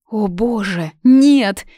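sudden high, loud outcry; horrified cry. A narrator's reading. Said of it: "воскликнула Юна".

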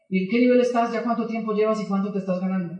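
pry while sounding uninterested; feigned indifference. Retold or imitated. Probing an old friend's earnings, feigning indifference. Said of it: "que él no note que a usted le interesa".

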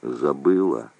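resigning himself to it; repeated, falling. A narrator's reading. He repeats it to Shura, low and flat. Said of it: "повторил".

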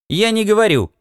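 curt reply. Acted. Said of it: "ответила она".

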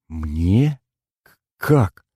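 заикаясь от изумления, выше; сбивчивое изумление; растерянно. Acted. Инна растеряна. (Инна в растерянности переспрашивает Мишу)

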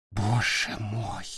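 soft, slow, hushed; whispered horror. Acted. Nick staring at the blood, hushed and slow. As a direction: breathe it out in shock. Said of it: "прошептал Ник".

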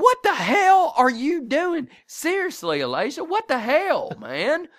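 high, loud, exasperated yell; angry yelling. Retold or imitated. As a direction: scold her, fed up and loud. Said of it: "I was pissed".

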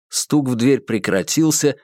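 ordinary delivery

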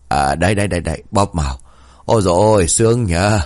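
a hint of a pleased grandpa; old man sighing with pleasure at a massage; relieved old grandpa; contented old man.

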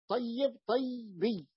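"طيب" with double y, then "طيبي" as tay-biyy; nisba contrast demo. Shown as a demonstration. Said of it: "فأن تقيسوا على". (نطق "طيب" مشددة ثم "طيبي" بياء ساكنة)

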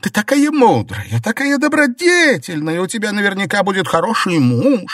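high, loud sneering complaint; sneer, then turn to self-pity; mocking, bitter. A narrator's reading. Jingui sneering at Baochai and lamenting, high and loud. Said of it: "насмешливо воскликнула Цзиньгуй".

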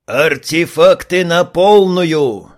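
slow, loud full command; commanding shout. Acted. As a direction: order full power with force. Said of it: "скомандовал ягер". (громкая команда)

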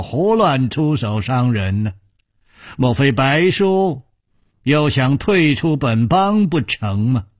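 measured, weighty questioning; grave, stern. Acted. Nangong confronts his martial uncle, gravely stern. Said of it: "沉声说".

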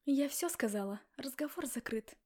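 loud mock bark to end the talk. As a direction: slam the conversation shut. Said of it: "гаркнула".

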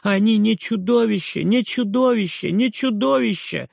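high, loud, insistent protest; repeated shout. A narrator's reading. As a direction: hammer the denial again and again. (упрямый крик мальчика)

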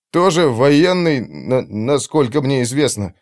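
nervous stammer, faltering. Acted. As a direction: stumble over the words. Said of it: "заикающимся голосом пролепетал Марк". (заикаясь, лепечет)

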